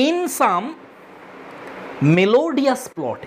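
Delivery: melodious plot stretched very slowly; slow poem reading. Shown as a demonstration. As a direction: linger on every syllable like reciting verse. Teacher recites poem line. (খুব ধীরে টেনে কবিতা পাঠ)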